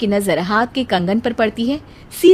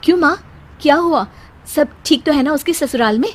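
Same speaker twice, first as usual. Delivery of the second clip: anxious worry; 5 semitones higher, faster than usual. Acted. Daughter-in-law hears sister-in-law cried.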